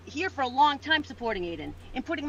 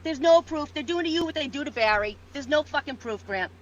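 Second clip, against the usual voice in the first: angry denial. Real, not acted. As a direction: snap back in denial. Heated denial in argument.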